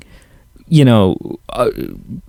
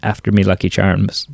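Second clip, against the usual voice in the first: cartoon Irish accent; 4 semitones lower, 4 dB quieter than usual. Shown as a demonstration. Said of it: "anything I can do is just".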